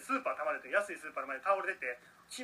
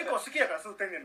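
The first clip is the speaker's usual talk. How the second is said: slightly raised voice, covering embarrassment; mock-bold loud voice; 3 semitones higher, 4 dB louder than usual. Cheap-cigarette buyer defending his choice to the clerk, mildly mock-loud. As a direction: imitate a customer's overly confident announcement. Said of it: "恥ずかしいから逆に大きい声で言ってくれて".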